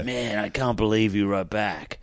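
lightly mimicked South African accent; imitated South African accent. Fan amazed the comedian replied, imitated South African accent. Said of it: "he's kind of nailing it".

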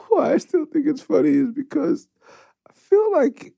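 high, cracking with laughter; trying not to crack up while telling it; giggling through the story; laughing disbelief. Real, not acted. Laughing while recounting prank.

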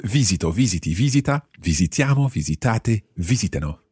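visito, visiti, visita, visitano on VI, visitiamo on TIA, visitate on TA; rhythmic recital from visito to visitano, each stress marked; chant-like model of visito through visitano with clear stresses; stressed verb run-through. Shown as a demonstration. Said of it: "Going through the whole verb".

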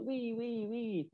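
high, quiet mimicry of a French girl; imitated French lassie. French lassie teasing him at McDonald's, imitated high and soft. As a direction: lightly mimic her in a small high voice. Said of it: "she's laughing, she's like".

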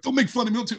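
high-pitched mock protest; imitating hurt wife. Tearful-TV-watching wife teased by her husband, mock-hurt protest. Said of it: "She's like".

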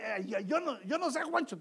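imitated wife's huff, rising in pitch; angry wife. Angry wife makes demands of her husband, in a mock huff. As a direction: play a miffed wife, hammed-up. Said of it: "la esposa está enojada y te dice".

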